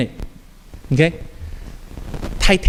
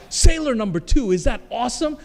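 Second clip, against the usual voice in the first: higher, questioning, tailing off softer; lightly acted doubt, pitched up; unsure question; 5 semitones higher, 3 dB quieter than usual. Actor asks casting director about his role, unsure.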